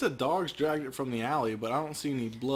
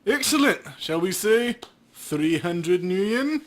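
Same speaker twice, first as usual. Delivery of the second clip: high, pleased Excellent then slow haggling; slow, sly bargaining; greedy cop; 5 semitones higher, 5 dB louder, slower than usual. Acted. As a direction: savour the offer like a crooked cop.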